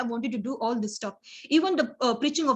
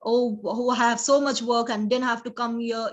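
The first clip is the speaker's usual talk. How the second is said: grumbling. Retold or imitated. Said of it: "not like grumping".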